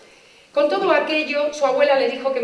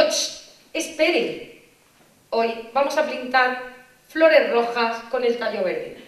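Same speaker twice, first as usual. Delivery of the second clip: 1 slow hushed teacher; slower than usual. Retold or imitated. Teacher cuts in again.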